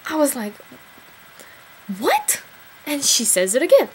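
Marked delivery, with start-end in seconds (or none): 2.0-2.4 surprised what. Retold or imitated. Stunned reply to the odd question.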